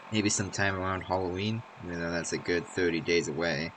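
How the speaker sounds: reading a maintenance memo aloud; dry memo reading voice; terminal entry read. Acted. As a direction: read it like a formal office memo.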